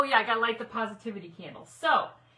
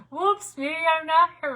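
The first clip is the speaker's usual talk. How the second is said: louder, higher, sing-song mock surprise; playful whoops; 7 semitones higher, 7 dB louder than usual. Real, not acted. Host joking to viewers about her missing video, playful and louder. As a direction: toss it off like a cheerful oops.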